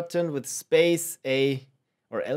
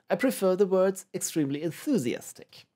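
lightly hammed British accent, pitched higher; poor British accent; 5 semitones higher than usual. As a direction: put on a bad British accent. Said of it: "poor, uh, British accent".

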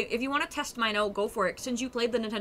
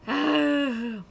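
loud sigh; 5 semitones higher, 5 dB louder than usual. Real, not acted. Reaction after the aside.

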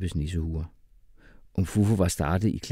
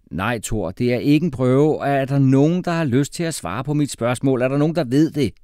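slightly irritated; 8 semitones higher, 7 dB louder than usual. A narrator's reading. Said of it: "Jeppe lød lettere irriteret".

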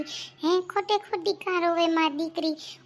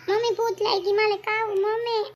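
put-on high whiny kid begging mom; child whining for food; 5 semitones higher, 3 dB louder than usual. Hungry child whining to mom for food, high whiny voice. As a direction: whine like a hungry little kid.

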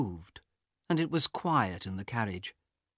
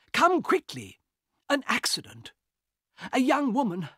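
high, loud urgent calls; panicked alarm; 12 semitones higher, 3 dB louder than usual. Acted. Harris alerts the guard.

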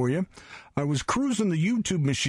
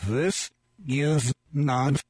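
reversed recording; much slower than usual. Shown as a demonstration. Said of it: "then I'm gonna turn it around".

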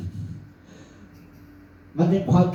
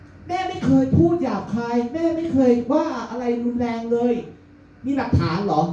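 higher fake-innocent mother voice; high-pitched denial; 7 semitones higher than usual. Mother denies rudeness to son, higher fake-innocent voice. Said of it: "แฮชแท็กเสียงสูง".

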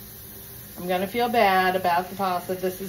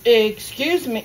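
louder excuse me; 3 semitones higher, 5 dB louder, slower than usual. Retold or imitated. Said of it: "And I kinda went".

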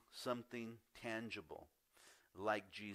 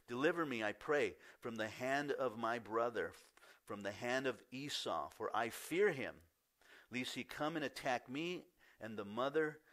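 earnest scripture reading. Acted. Pastor reading Jacob's prayer to the congregation, earnest and measured. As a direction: lift the old words reverently.

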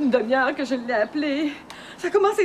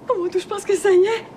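startled cry; 4 dB louder than usual. Acted. Labour begins, contraction.

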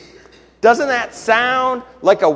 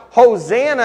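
shouted Hosanna; 5 semitones higher, 6 dB louder than usual. Retold or imitated. Pastor imitating the crowd's joyful shout, loud call. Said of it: "We shout".

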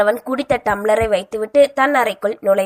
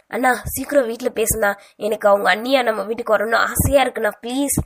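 pleading; faster than usual. Acted. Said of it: "தன் அண்ணனிடம் கெஞ்ச".

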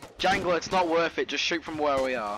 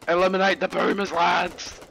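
loud barked command, faster; shouted order; 3 semitones higher, 6 dB louder than usual. Pretend. Officer repeats order louder.

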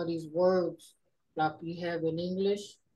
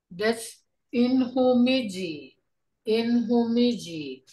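slow teaching demo; 3 semitones higher, 3 dB louder, slower than usual. Shown as a demonstration. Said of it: "introduces the new word".

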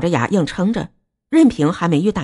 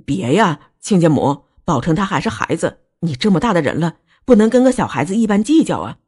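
pitiful begging. Acted. Father pleading for his son to in-law, pitiful. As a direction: beg the in-law to let it go. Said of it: "穆志国可怜兮兮地哀求道".

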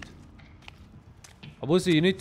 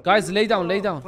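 urgent warning; 5 dB louder than usual. Real, not acted.

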